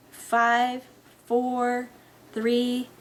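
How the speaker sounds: measured, drawn-out count; countdown. Acted. Friend counting down to the power test, measured countdown. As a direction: count it down evenly, each number held.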